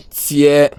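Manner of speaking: tiers held high and level; Chinese tone demo. Shown as a demonstration. Teacher repeats tiers with a high level tone. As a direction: sing tiers up on one high pitch.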